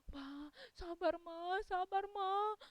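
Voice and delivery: slow, mildly weepy father; tearful consoling. Acted. Father tells mother to be patient, slow and tearful. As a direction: soothe her slowly through mild mock tears. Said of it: "Papanya juga nangis".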